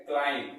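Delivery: क्लाइंब ending on m, b silent; correct pronunciation. Shown as a demonstration. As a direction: say क्लाइंब as "klaim". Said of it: "ये होता है".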